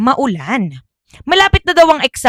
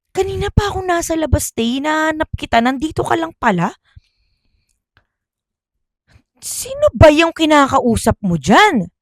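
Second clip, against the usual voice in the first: puzzled friend; 6 semitones higher than usual. Acted. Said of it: "sabi naman daw ni Ria".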